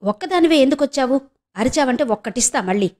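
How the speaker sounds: a touch of angry rebuke; angrily. Acted. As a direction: scold her for coming alone. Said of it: "అన్నాడు రాము కోపంగా".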